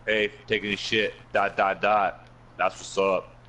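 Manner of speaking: each "dot, dot, dot" set apart and deliberate; deadpan post dictation, weight on every "dot"; emphasized dots. Retold or imitated. Friend dictates a silly Facebook post, dots emphasized. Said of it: "have to emphasize on the dot".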